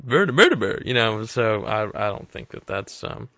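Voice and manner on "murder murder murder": high, louder excited chant; excited shouting. Retold or imitated. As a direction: blurt it out gleefully. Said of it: "been like".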